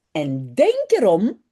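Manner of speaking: a hint of a strict boy; mock-strict warning; stern. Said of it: "zegt hij streng". (garçon faussement sévère)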